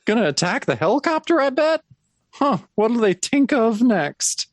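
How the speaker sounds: put-on slurred, slow, high drunk voice; a wobbly, high sozzled bar drunk; classic drunk. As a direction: play the dazed cartoon drunk, drawn out and high. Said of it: "a classic drunk who says".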